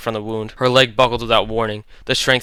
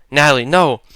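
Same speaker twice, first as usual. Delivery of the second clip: louder urgent call; shouted; 3 semitones higher, 6 dB louder than usual. Acted. Leo reaching out, shouting at Natalie. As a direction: shout her name to stop her. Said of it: "Leo shouted".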